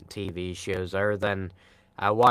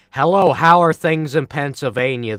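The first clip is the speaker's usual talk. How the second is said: mock chat voice; 6 semitones higher, 11 dB louder than usual. Reading a chat question aloud.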